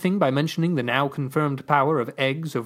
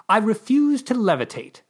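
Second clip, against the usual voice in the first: 1 firm refusal; 8 semitones higher, 4 dB louder than usual. Acted. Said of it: "I very well meant it".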